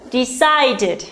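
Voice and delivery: "decided" with a distinct final -did syllable; extra ED syllable. Shown as a demonstration. Teacher adding ED to decide, carefully pronounced. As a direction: enunciate "decided" in three clear syllables. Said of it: "Similarly, we have decide".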